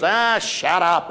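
lightly voiced big bulldog's slow brush-off; slow, irritated cartoon bulldog; Butch. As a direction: drag it out like a fed-up cartoon bulldog. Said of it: "And there's Butch".

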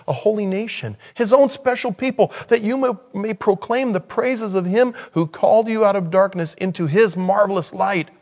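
high, ringing scripture reading; fervent scripture reading. Real, not acted. Reads scripture aloud with raised fervour.

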